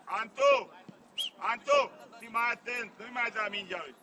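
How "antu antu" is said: loud name call to a player. Real, not acted. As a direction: shout the name across the pitch. Coach calls player by name. (strigă tare numele jucătorului)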